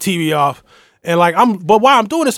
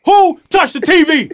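furious yell, repeated; 13 semitones higher, 6 dB louder than usual. Retold or imitated. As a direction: demand it again, still furious. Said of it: "I was like a pit bull".

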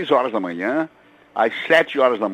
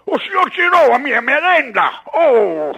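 Leôncio; 10 semitones higher, 5 dB louder than usual. Shown as a demonstration. Veteran dubber performing his cartoon character for the radio host, high indignant wail. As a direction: wail in protest with a put-on cartoon voice. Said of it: "Você pode fazer um pouquinho do Leôncio?".

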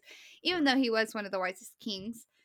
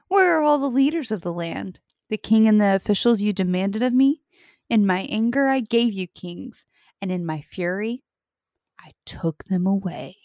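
louder, booming, ending in a low whisper; movie trailer voice; 3 semitones lower, 7 dB louder than usual. Acted. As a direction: build fury then drop to a hush. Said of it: "I wanted to try my movie trailer voice".

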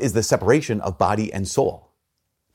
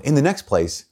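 reading the book aloud; 2 semitones higher than usual. Retold or imitated. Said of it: "it says, um".

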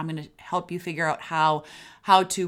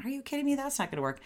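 mock disbelief; 8 semitones higher, 4 dB quieter, much faster than usual. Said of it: "can sound like".

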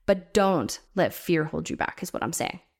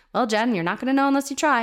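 lightly voiced dad, pitched higher; a hint of a parent lecturing his kid; dad's advice; 4 semitones higher than usual. Dad telling his kid to just try, lightly imitated. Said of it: "my dad would say that to me".

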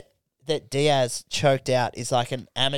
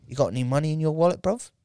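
quick London Jamaican patter; imitated Jamaican-London geezer; Jamaican English accent; faster than usual. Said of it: "that really cool accent".

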